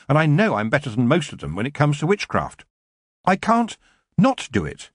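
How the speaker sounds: high, pleading, understated distress; near tears. A narrator's reading. Young witch torn between love and witchcraft, tearful. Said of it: "feel the tears beginning".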